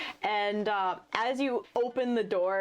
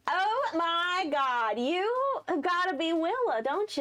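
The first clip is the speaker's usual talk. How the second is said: gushing excited Hayden; 7 semitones higher than usual. Acted. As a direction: gush over meeting her at last. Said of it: "Hayden waves and goes".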